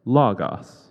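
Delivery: very loud robotic voice; computer-generated voice. Retold or imitated. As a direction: boom it out like a computer over loudspeakers. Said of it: "the computer-generated voice again go".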